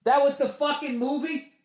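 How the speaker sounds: high, soft letdown; disbelief. Retold or imitated. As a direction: sound baffled and let down. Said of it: "I was just like".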